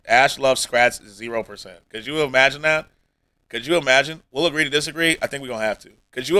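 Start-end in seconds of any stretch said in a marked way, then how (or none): 0.1-1.8 slow, flat robotic readout; mock bot readout. Streamer imagines chat bot reply, slow mock readout. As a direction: read it slowly like a bot. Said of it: "it was like".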